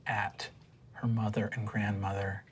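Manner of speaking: low, measured narration; game master's scene setting. Acted. Game master describing a tearful reunion to players, hushed narration.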